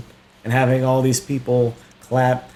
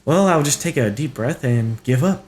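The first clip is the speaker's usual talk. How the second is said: Bo Burnham impression; 6 semitones higher, 4 dB louder than usual. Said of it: "And Bo's like".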